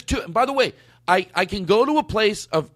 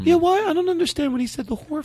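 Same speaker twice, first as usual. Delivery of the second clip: put-on girlfriend voice; 12 semitones higher than usual. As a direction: play the suspicious girlfriend in a high voice. S0 voicing the girlfriend.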